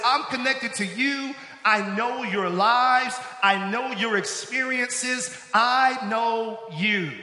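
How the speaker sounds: slow, emphatic and heartfelt; sincere, slow. Retold or imitated. Paul's voice to his people, slow and sincere. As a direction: lean on each I know, slowly. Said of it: "Paul's ability to speak their language says".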